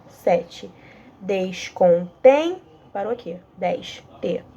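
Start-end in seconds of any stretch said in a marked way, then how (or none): 1.2-2.6 "Descontém" stretched syllable by syllable; slow scansion. Shown as a demonstration. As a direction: count it out very slowly. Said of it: "passar pro outro verso". ("Descontém" bem devagar)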